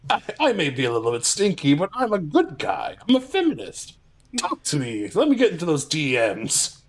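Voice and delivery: lightly voiced cartoon villain; hint of a villain doing a nice-guy act; Robotnik voice. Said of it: "It's not even a good Robotnik voice".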